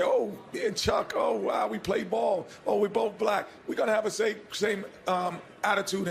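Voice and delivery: mock excited buddy talk. The speaker mocking how easy it is to bond with Chuck, hammed-up excited. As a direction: play the easy buddy, high and pumped. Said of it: "I can easily say".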